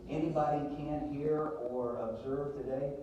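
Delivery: speaking up for a juror who can't hear; to someone hard of hearing. Real, not acted. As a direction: raise your voice so the back row hears. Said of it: "Talk louder, please".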